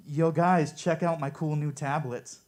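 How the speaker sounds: lightly voiced Moses as a casual bro; a hint of a dude showing off his gadgets. Comic doing Moses as a bro hyping tablets, lightly voiced. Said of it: "That's my impression of Moses".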